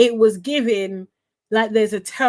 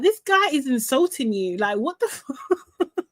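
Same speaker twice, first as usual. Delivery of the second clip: incredulous reaction; 3 semitones higher than usual. Retold or imitated. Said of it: "And I'm just like".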